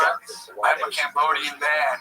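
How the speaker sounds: slow mock-solemn patriarch; sky voice from The Lion King. Dad telling daughter his heritage, mock-solemn. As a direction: lightly parody a grand father from the sky. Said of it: "they're talking like they're, like, the sky".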